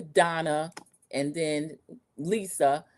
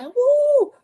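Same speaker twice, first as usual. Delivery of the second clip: mock whoop; 7 dB louder than usual. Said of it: "Rob was like".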